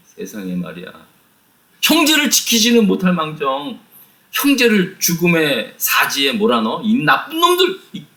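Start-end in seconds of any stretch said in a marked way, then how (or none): 1.8-8.0 a sudden high cry at the sons, then held; furious outburst. Retold or imitated. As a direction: burst out at the wicked sons. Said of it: "막 노발대발한 거예요". (아들들에게 버럭 화내는 아버지, 높게 터지는 호통)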